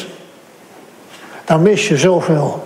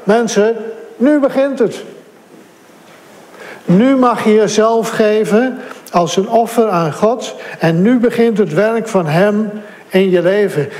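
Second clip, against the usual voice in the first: calling out loud; 2 semitones higher than usual. Retold or imitated. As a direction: call it out to the whole church like Paulus. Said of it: "nu roept hij zo hard als hij kan". (Paulus die het de gemeente toeroept, verheven stem)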